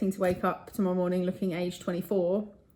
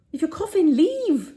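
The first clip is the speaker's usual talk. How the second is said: laughing shout; 6 semitones higher, slower than usual. Real, not acted. Telling coughing diners to leave, higher laughing shout. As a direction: bark the order, then laugh.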